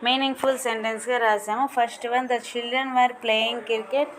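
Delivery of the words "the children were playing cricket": each English word spaced out slowly for pupils to copy; slow dictation reading. Shown as a demonstration. Teacher reading answers to her class at slow dictation pace. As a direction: read it at dictation speed, word by word.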